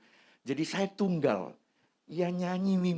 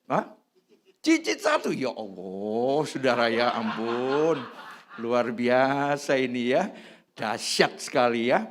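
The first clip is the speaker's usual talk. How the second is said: amazed; 2 semitones lower, slower than usual. Real, not acted. Amazed at great-grandchild news.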